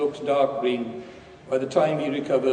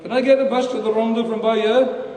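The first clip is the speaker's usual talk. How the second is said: raised, higher voice to someone approaching; calling out; 7 semitones higher, 6 dB louder than usual. Acted. Old man at the bus stop to Dave, calling out. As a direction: call it across a few steps of pavement. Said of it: "calls out".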